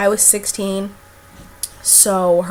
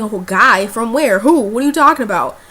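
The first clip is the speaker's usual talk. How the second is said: shocked questions; 6 dB louder than usual. Retold or imitated. Friend says a guy's coming over.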